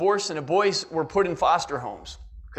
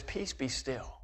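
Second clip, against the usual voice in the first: calm command; 5 semitones lower, 12 dB quieter, slower than usual. Retold or imitated. Jesus calming the storm.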